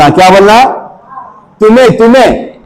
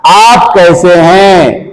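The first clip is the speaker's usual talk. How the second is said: slow demo; much slower than usual. Shown as a demonstration. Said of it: "कैसा बोलेंगे?".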